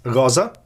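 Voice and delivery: "rosa" accented on RO; stress on first syllable. Shown as a demonstration. Lecturer showing the word on its own, "rosa" stressed on RO. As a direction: put the weight on RO in "rosa". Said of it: "on its own is accented".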